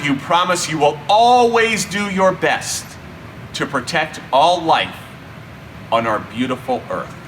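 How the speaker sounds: ordinary delivery, nothing marked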